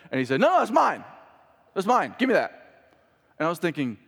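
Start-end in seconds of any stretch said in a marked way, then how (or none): 0.4-2.9 imitating a selfish kid, high and loud; mock tantrum, pitched up and punched out; possessive child. Son snatching his Nerf gun back from a sibling, mock possessive whine.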